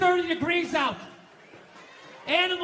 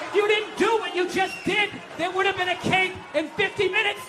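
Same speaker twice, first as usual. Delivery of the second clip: mock rant; 3 semitones higher than usual. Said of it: "It's like".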